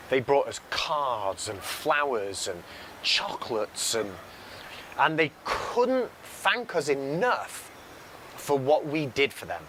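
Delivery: fighting emotion while remembering customers' gratitude; holding back tears. Real, not acted. Speaker recalling customers' thanks, slow and choked-up. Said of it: "I don't know why I'm getting emotional".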